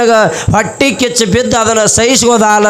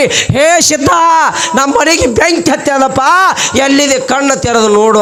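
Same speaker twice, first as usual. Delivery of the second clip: acted high-pitched cry for help; lightly acted call to a distant holy man, pitched up; retold calling out; 5 semitones higher than usual. Couple calling Siddha as their house burns, mock calling out. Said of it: "'ಸಿದ್ಧ' ಅಂತೇಳಿ ಕೂಗಿ ಬಿಡ್ರಿ".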